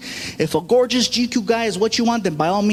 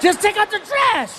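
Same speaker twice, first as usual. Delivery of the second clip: much higher, louder exasperated order; exasperated dad; 11 semitones higher, 3 dB louder than usual. Retold or imitated. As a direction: snap at him to just do it. Dad loses patience with son.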